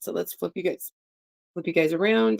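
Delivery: talking through hiccups; words broken by hiccups. Real, not acted. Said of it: "Sorry, I have the hiccups".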